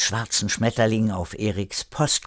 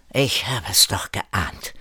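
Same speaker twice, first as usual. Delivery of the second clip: frecher; 3 semitones higher than usual. Acted. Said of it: "fragte Kire jetzt frecher".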